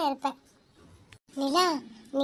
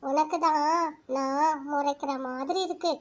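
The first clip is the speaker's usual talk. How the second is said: lower, softer confiding voice; a lonely girl confiding her sorrow to the moon; soft inner talk; 4 semitones lower, 4 dB quieter than usual. Acted. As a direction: talk gently to the moon in your head. Girl talks softly to the moon.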